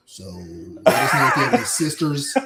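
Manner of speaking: laughing through the words; can't hold back the laugh while teasing. Real, not acted. Teasing, cracking up mid-line.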